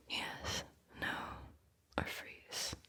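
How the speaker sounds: the choices echoed in a fading whisper; a dying whispered echo of the options; faded echo. Acted. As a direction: let it fall away like an echo.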